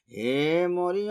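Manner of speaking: high, slow chanted call; accusers calling out. A narrator's reading. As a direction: stretch the name into a long rising cry. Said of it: "ইহুদিগণ বলতে লাগলো".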